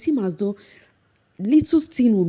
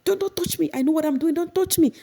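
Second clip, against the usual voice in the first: very high shrill refusal; imitating a furious housemate; mock angry Mercy; 11 semitones higher than usual. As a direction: push them off in an imitated tantrum. Mercy pushing Baye away.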